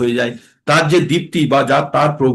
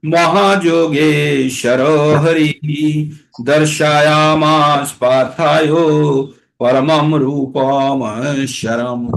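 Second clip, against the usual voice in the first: slow, measured Sanskrit chanting; slow verse recitation; much slower than usual. Shown as a demonstration. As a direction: intone each word slowly.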